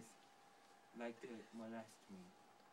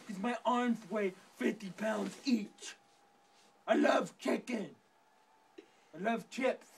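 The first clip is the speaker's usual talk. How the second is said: angry rant; 2 semitones higher, 6 dB louder than usual. Acted. Character rants about being mocked.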